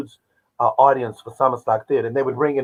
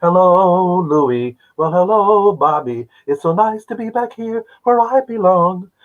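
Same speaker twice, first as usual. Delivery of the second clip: higher, lightly sung "hello" greetings; a singer's rendition of a famous show tune; 5 semitones higher than usual. Retold or imitated. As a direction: the singer greets each cast member from the steps. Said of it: "she says".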